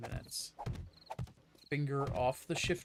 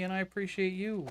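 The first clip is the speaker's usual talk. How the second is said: appreciate pushed up high, oddly weighted; odd stress on appreciate; 5 semitones higher than usual. Real, not acted. Thanking Sparkle, stressing appreciate oddly. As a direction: lean hard on appreciate, a bit weird. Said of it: "I put emphasis on the word like that".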